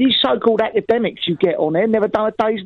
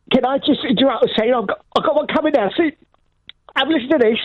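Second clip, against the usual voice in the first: fast, eager, raised pitch; excited; 4 semitones higher, faster than usual. Real, not acted. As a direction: rush it out eagerly. Excited about an incoming fart.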